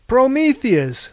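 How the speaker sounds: high, loud, slow cry of recognition; Harvey spotting his friend beneath him, surprised. A narrator's reading. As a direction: draw the name out in glad surprise.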